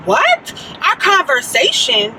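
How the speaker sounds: retold stunned questioning; incredulous echo. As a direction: throw his words back in disbelief. Retelling her disbelief at caller's claim.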